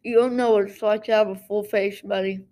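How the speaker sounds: talking through a mouthful of goldfish crackers; words round a bite of snacks; chewing while talking. Real, not acted. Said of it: "if you can hear me munching on these goldfish".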